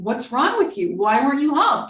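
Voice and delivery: hammed-up angry outburst at the partner; mock yelling. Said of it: "I might be yelling".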